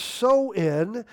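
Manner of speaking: "sow in" with sow rhyming with cow; Gaelic pronunciation demo. Shown as a demonstration. Preacher teaching the Halloween festival's name, careful pronunciation demo. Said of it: "the pronunciation is".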